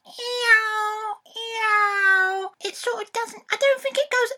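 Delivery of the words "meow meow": slow, drawn-out meows; cat imitation. Boy showing dad a real cat sound, slow and drawn out. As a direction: stretch each meow like a real cat.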